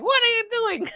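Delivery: very high-pitched imitation scream; squealed outrage, playfully hammed up; mock scream. Storyteller imitates god screaming at the statue thrower, mock scream. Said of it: "scream at him".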